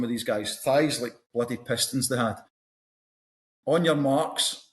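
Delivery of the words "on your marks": starter's call. Retold or imitated. Starter's call in race story.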